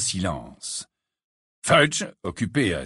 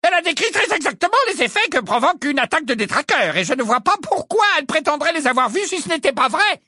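booming voice; 5 dB louder, faster than usual. A narrator's reading. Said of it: "de sa voix tonitruante".

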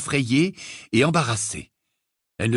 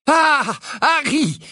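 cheerful greeting; 13 semitones higher, 4 dB louder, much slower than usual. Acted. Father greets Harry happily.

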